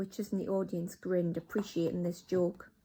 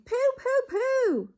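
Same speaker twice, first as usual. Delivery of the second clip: much higher, loud repeated cries of disgust; disgusted witches; 6 dB louder, slower than usual. Acted. Witch audience keeps crying out, high disgusted pooh. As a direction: hold your nose at the smell.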